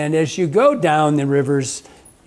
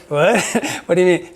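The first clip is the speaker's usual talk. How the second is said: surprised; 3 semitones higher, 3 dB louder than usual. Retold or imitated. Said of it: "I go".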